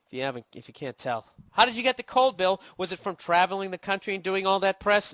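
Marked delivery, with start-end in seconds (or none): 1.5-5.1 mock fan voice. Mocking imagined fan question.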